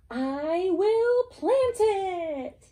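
high, slow hen voice; resolved little hen; determined hen. Acted. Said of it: "said the Little Red Hen".

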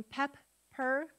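pep, per as two separate beats; split by syllable. Shown as a demonstration. Teacher counting syllables with students, pep, per in two beats. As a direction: clear break between pep and per. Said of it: "How many syllables in".

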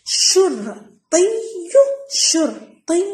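شرطي in slow pieces with a held double ي; doubled ya. Shown as a demonstration. Teacher showing pupils the doubled letter, slowly with a held ya. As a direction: sound out شرطي as شر، طيّ، يو. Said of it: "نكتبها حرف واحد مشدد".

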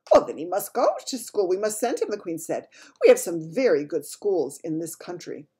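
the Queen. Acted. Queen voiced, regal.

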